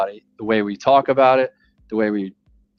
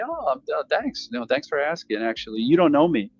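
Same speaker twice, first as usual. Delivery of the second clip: soft humble phone opener. Shown as a demonstration. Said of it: "I'll say".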